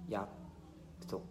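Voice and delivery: slow unvoiced whisper of promise. Real, not acted. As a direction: breathe the word softly. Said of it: "여기다가 약속하고 갑니다".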